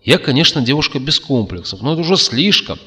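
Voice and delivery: возмущённо крикнуть, выше и громче; громкое девичье восклицание; выкрик. A narrator's reading. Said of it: "крикнула Злата". (возмущённый выкрик)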